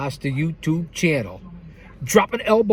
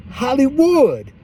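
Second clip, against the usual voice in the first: higher, louder, slowed announcer name; announcer call; 8 semitones higher, 4 dB louder, slower than usual. Acted. Host shouting out a friend, ring announcer call.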